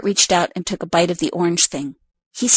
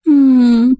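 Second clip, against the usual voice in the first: soft moan; 6 semitones higher, 6 dB louder than usual. Acted. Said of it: "let out a soft moan".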